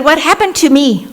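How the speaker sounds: half-laughing mock dismay; retold shock. Woman asking the doctor why she shrank, high and laughing.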